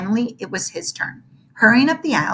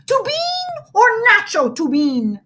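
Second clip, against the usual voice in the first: dramatic whisper; 12 semitones higher, 3 dB louder than usual. Acted. Lil's dramatic recital.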